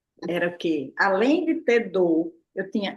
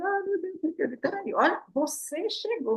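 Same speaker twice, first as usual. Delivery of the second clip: mock excitement; 9 semitones higher, 5 dB quieter than usual. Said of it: "Eu chego, tá a pessoa chorando".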